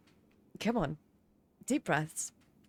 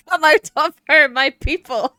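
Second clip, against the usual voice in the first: mock prophecy; 4 semitones higher, 6 dB louder, slower than usual. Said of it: "somebody's posted".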